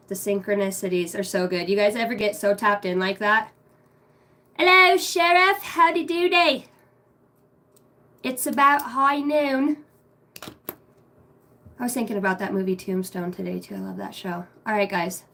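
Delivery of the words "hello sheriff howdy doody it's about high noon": high, loud western drawl greeting; cowboy voice. Pretend. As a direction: hail him like an old-west cowboy. Cowboy greeting to viewer Sheriff.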